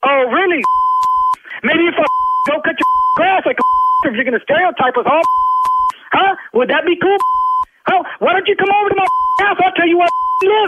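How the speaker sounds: heated, indignant street-tough comeback; angry tough talk. Real, not acted. Loan officer snapping at a rude prank caller, angry. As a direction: put the caller in his place, fed up. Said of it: "I don't even like to talk like this".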